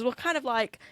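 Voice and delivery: drawn-out, slow and vague; slow dreamy nonsense; slow musing quote. Retold or imitated. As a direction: spell it out slowly like nonsense is wisdom. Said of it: "And he goes".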